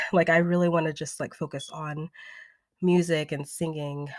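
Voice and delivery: slightly breathless, rushed words; talking while still catching breath. Real, not acted. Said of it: "Why am I out of breath?".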